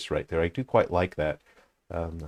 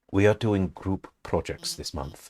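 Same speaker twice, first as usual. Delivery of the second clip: slow, put-on English accent; 3 dB quieter than usual. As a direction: read it out slowly with an English accent. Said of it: "gave everyone an English accent".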